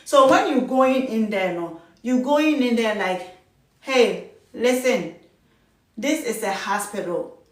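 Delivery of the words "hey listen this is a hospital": firm boundary-setting. Shown as a demonstration. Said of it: "You set the boundaries first of all".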